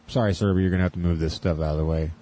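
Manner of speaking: low, quick official voice; mock official. Prankster behind a friend in line at Walmart, imitating an official. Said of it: "real official, like".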